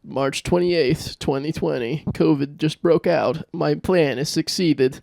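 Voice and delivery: slow, gloating diary entry; slow villain diary voice. Retold or imitated. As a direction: read it like a scheming villain.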